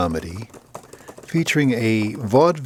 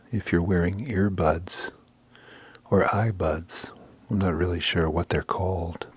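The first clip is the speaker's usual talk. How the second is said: hushed confidential whisper; a whispered aside to the listener; 5 semitones lower, 6 dB quieter than usual. Real, not acted. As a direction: drop to a secret whisper. Whispered aside about earbuds.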